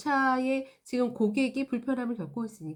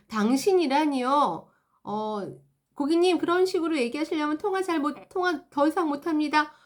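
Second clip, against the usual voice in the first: offended agent; 4 semitones higher, 4 dB louder than usual. Acted. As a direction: take offence and threaten to hang up. Offended employee retort. (불쾌해하는 상담원의 느리고 날 선 대꾸)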